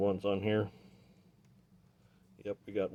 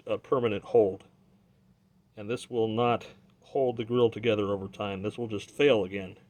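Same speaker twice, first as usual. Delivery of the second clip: muffled through a respirator mask; 6 dB louder than usual. Real, not acted. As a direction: speak muffled behind a mask. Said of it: "if I sound muffled, it's because I'm wearing a respirator".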